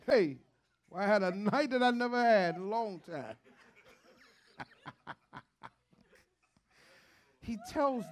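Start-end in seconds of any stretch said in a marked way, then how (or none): 0.0-3.4 imitating dad. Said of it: "That's how my mom and dad talk".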